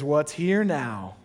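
slow, deliberate "What's here now?"; slow question. Shown as a demonstration. Pastor modeling the question, slow. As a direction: draw the question out. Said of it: "a great question to ask is".

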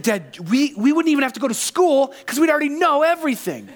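high-pitched imitation of a thrilled kid; most excited son. Son telling dad about skipping school, thrilled. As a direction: build to a giddy, high peak, acted. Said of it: "he was most excited about".

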